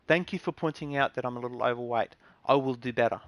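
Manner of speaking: earnest, accepting gratitude without sarcasm; sincere thanks. Shown as a demonstration. Demonstrating a reply to a weight insult, sincerely grateful. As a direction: take the criticism as if truly thankful. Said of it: "Say it like you're really thank".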